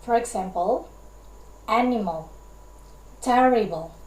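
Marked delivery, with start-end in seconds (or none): 1.7-2.3 "animal" stressed on the first syllable; dactyl stress. Shown as a demonstration. Teacher giving an example of a dactyl, first-syllable stress on "animal". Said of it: "one stressed syllable". 3.2-4.0 "terrible" with a strong first syllable; dactyl stress. Shown as a demonstration. Teacher giving an example of a dactyl, first-syllable stress on "terrible". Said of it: "one stressed syllable".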